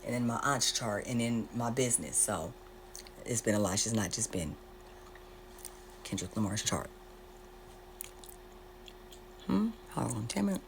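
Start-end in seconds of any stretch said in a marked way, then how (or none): 3.8-10.6 chewing gum. Real, not acted. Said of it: "Please excuse me for my gum chewing".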